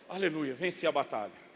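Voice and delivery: normal talking voice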